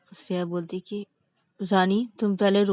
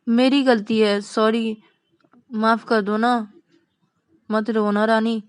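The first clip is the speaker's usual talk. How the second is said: coaxing, slightly raised pleading; pleading apology; 2 semitones higher than usual. Acted. Vikas begs crying Rani to forgive him, pleading apology. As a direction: beg softheartedly in short repeated appeals.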